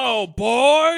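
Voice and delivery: high, loud, slow menacing drawl; Randy Quaid impression. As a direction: stretch out a creepy villain's greeting. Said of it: "the general Randy Quaid thing".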